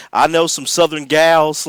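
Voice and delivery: imitating a smooth-talking lounge host; smarmy lounge singer. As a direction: lay on the slick lounge-singer charm. Quoting Nick the lounge singer.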